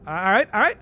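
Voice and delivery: smiling voice. Shown as a demonstration. Streamer trying to sound unerringly cheerful, put-on smiling voice. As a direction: talk through a huge fixed smile. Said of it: "I'll try and always talk like I'm smiling".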